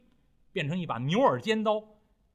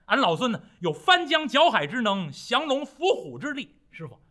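略抬高嗓门自夸; 孙悟空向师父夸耀本领; 得意夸口; 3 semitones higher than usual. Acted. 悟空向师傅夸口. (带几分得意地吹嘘)

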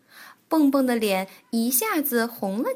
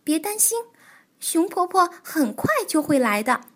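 comforting; 7 semitones higher, 4 dB louder than usual. Acted. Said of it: "跳跳尽力安慰着好朋友".

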